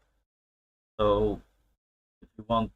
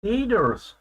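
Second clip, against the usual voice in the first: surprised echo; 9 semitones higher than usual. Real, not acted. We call potatoes taters.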